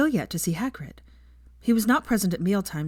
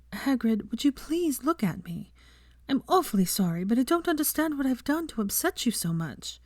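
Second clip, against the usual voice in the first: pleading Hermione; 7 semitones higher than usual. A narrator's reading. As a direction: beg him to look at her.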